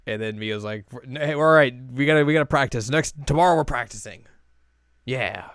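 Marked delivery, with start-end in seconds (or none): 1.1-4.2 firm rallying. Retold or imitated. Mio laying down the law.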